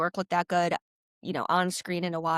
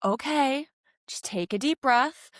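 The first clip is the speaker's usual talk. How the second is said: calm coaching voice; 5 semitones higher, slower than usual. Retold or imitated. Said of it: "he'll be like".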